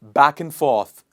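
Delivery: loud, slow "back-un-forth"; repeat-after-me model. Shown as a demonstration. Teacher has class repeat after her, loud slow weak AND. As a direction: punch back and forth, AND weakened. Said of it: "Repeat after me".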